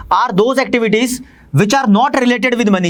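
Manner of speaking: slow, spaced dictation of a definition. Shown as a demonstration. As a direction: read it out slowly so students can copy. (धीमी गति से परिभाषा लिखवाते हुए)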